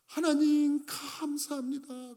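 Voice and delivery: loud cry of thanks, then dropping away slowly; shouted thanks. Acted. Healed leper shouting his thanks to God, loud then fading. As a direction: call out thanks to God, then let it sink. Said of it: "소리를 지르면서".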